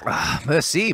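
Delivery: mock French, merci rising; French chef. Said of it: "I would make a French joke in there".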